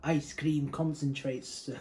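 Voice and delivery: slow, drawn-out Welsh accent. Shown as a demonstration. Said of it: "not in a Welsh accent".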